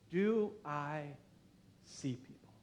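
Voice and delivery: hushed, almost whispered, slow; quiet self-question. Shown as a demonstration. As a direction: ask it softly to yourself. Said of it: "a question for you to ask yourself".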